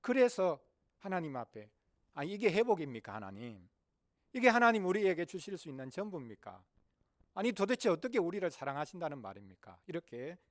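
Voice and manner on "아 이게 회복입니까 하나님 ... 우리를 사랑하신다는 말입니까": mildly raised, protesting questions; crying out in complaint. Acted. Returned exiles questioning God, a mild outcry of complaint. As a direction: push back in disbelief. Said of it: "외치고".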